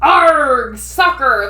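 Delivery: loud gruff group shout; the whole crew yelling back. A narrator's reading. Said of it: "the crew all yelled".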